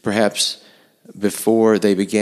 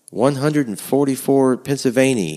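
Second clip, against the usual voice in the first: put-on Dutch accent; 7 semitones higher than usual. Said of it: "he said with a very Dutch accent".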